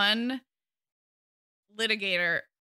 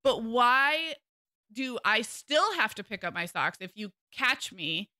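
put-on teenage voice; 3 semitones higher than usual. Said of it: "my teenage voice".

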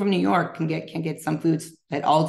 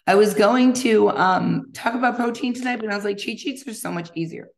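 after a workout; 3 semitones higher, 4 dB louder than usual. Real, not acted. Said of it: "I'm catching my breath".

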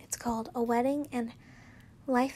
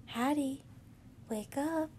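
soft hushed wake-up call; whispered; 2 semitones higher, 6 dB quieter than usual. A narrator's reading. Wife softly waking her napping wife, whispered. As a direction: murmur gently to wake her. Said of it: "I whispered".

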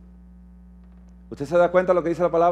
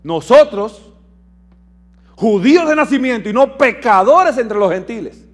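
proud Paul quote; 5 dB louder than usual. Retold or imitated. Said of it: "lo que dice Pablo".

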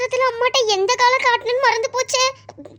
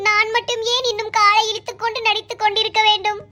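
mock-dramatic monologue; 4 semitones lower than usual. Girl lamenting her failed schemes, mock-tragic monologue. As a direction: recite like a tragic hero, tongue in cheek.

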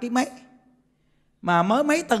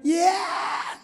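dying man; 8 semitones higher, 3 dB quieter than usual. Acted. Dying man clutching gold.

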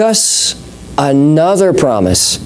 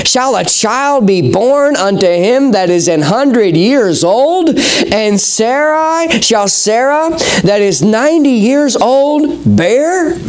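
incredulous; 4 semitones higher, slower than usual. Acted. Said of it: "Abraham fell on his face and laughed".

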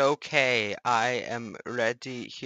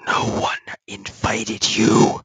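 bickering voices in one; 4 semitones lower, 10 dB louder than usual. Pretend. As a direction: shout back at the other voice. Arguing with himself.

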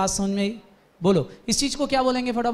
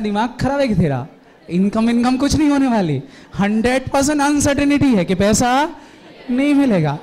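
angry scolding; 3 semitones higher, 5 dB louder than usual. Acted. Teacher scolds Deepak in acted quarrel.

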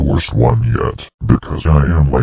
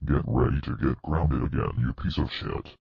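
much softer, muttered threat; quiet menace; 13 dB quieter than usual. Acted. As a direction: mutter it with contempt. Muttered insult.

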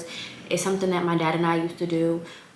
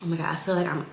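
congested; faster than usual. Real, not acted. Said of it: "I sound congested".

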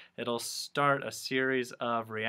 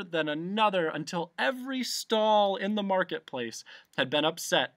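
higher, building storybook narration; animated story narration; 5 semitones higher than usual. A narrator's reading. Narrator telling of stalls toppling, animated narration. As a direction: let each collision raise the excitement. Excited narration of domino crash.

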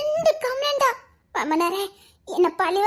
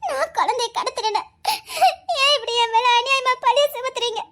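tearful half-laugh. Acted. Accused, laughing and crying.

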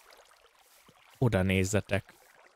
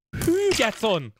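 1 drawn-out wow; 9 semitones higher, slower than usual. Real, not acted. Reacts to something in game.

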